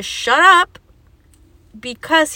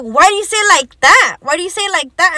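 imitated indignant challenge, raised pitch; challenging; 3 semitones higher, 4 dB louder than usual. He objects to how she answered, challenging. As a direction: retell his objection, higher and punchy. Retold argument, challenging her wording.

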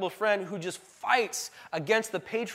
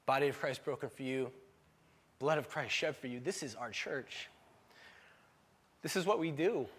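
softer, moved, holding back tears; choked up; 5 dB quieter than usual. Retold or imitated. Pastor retelling giving communion to a trans person, choked up. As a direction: offer it with the voice breaking a little. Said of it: "and I just, I lost it".

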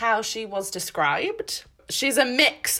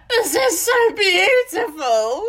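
retold awe; 8 semitones higher, 5 dB louder, slower than usual. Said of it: "I was like".

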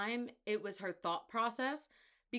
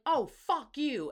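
mock angry; 6 semitones higher, 8 dB louder than usual. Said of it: "being like".

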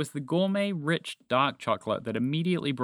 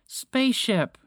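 high-pitched creature voice, drawn out; small alien creature; 11 semitones higher, 4 dB louder, slower than usual. A narrator's reading. Green creature answers the vehicle's voice, high creature cry. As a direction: call out high as a little creature. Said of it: "the creature called Bobby replied quietly".

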